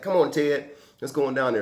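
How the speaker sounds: lightly eager urging; happy little buddy. Retold or imitated. Little buddy coaxing Ted down to the basement, mildly happy. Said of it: "He's happy as he can be".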